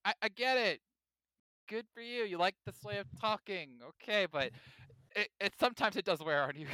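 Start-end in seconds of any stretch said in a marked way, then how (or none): 0.0-4.2 mock patience. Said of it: "I'm like".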